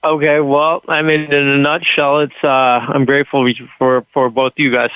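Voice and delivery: talking with a numb mouth after the dentist; slightly slurred, numb tongue. Real, not acted. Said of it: "half my tongue and face is numb".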